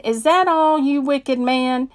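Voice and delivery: high, loud scornful challenge; mocking a wicked shooter's failure; defiant taunt. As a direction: hands on hips, taunt the gunman. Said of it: "hands on my hip and said".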